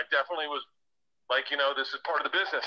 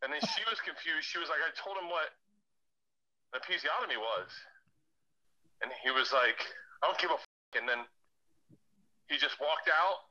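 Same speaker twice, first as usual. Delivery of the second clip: much softer, subdued retelling; hushed; 7 dB quieter than usual. Real, not acted. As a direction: drop your voice for the awkward part. Hushed retelling of awkward moment.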